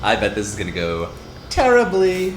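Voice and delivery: rising into a panicked high squeak; mock nervous. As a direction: fret like a nervous comic before a gig. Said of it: "It's like".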